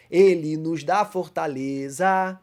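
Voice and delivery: very slow, drawn-out reading of the hymn verse; slow hymn line. Shown as a demonstration. Teacher quoting a hymn verse to the class, slowly drawn out. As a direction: stretch each word of the hymn line. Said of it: "terceiro verso".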